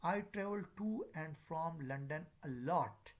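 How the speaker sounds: "to" and "from" given full, stressed forms; stress on opposite prepositions. Shown as a demonstration. Teacher demonstrating opposite prepositions, stressed "to" and "from". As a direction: lean on "to" and "from" in the sentence. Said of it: "stress on the opposite preposition".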